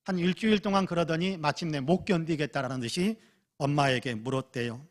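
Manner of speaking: ordinary talk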